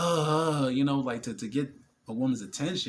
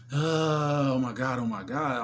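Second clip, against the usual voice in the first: louder flustered "oh my God"; mock starstruck gush; 2 semitones higher, 4 dB louder, slower than usual. Him mocking a starstruck guy. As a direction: play a guy losing it over a woman. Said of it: "I'm no longer overly".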